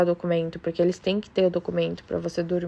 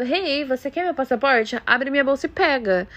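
mock innocent offer; 6 semitones higher than usual. Mocking what host mom implied she told the thief, high sarcastic sing-song. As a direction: play dumb like you're handing it over on purpose. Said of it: "Como se eu tivesse falado".

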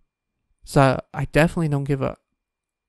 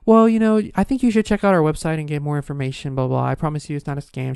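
mock fast sales patter; fast pushy sales talk; faster than usual. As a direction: imitate a saleswoman rushing through her pitch. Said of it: "She talks real fast".

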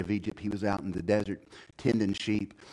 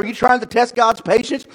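raised, high-pitched scolding question; commanding rebuke; 12 semitones higher, 11 dB louder than usual. A narrator's reading. Moses challenging the complainers, commanding. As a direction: rebuke the crowd firmly. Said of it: "Moses commanded".

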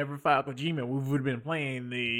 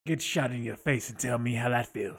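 Wolverine voice. Acted. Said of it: "his full Wolverine impression".

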